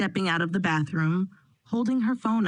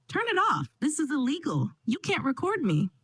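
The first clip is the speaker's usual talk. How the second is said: panicked shout; 7 semitones higher than usual. A narrator's reading. Leslie lunging for phone.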